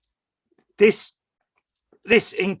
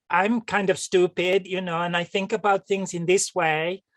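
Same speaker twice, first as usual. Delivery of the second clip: mock dim-witted persona; 4 semitones higher than usual. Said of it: "who came over as".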